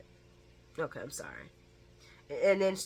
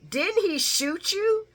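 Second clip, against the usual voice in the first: pointed jab; 11 semitones higher, slower than usual. Retold or imitated.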